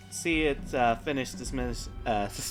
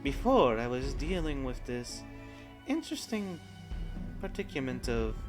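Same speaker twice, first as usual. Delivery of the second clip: commanding warrior goddess; 7 dB quieter than usual. Acted. Goddess explains her trapping.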